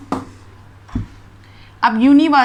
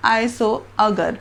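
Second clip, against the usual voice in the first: slow model sentence; much slower than usual. Shown as a demonstration. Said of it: "बीच में हमें ए डालना होगा".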